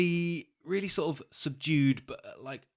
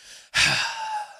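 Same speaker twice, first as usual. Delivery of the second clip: pointed sigh. Shown as a demonstration. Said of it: "the British thing".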